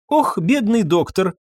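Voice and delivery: mild lament over the poor doctor. A narrator's reading. Irène bemoaning the unconscious doctor, mild wail. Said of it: "причитала Ирен".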